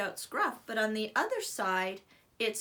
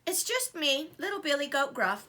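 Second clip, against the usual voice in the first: trembling; 4 semitones higher than usual. Acted. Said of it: "the little goat trembled".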